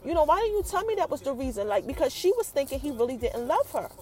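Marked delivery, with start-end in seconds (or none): 0.0-1.7 mildly heated retold demand, higher pitched. Angie confronting Jamie over why he left, mildly heated. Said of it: "she's heated".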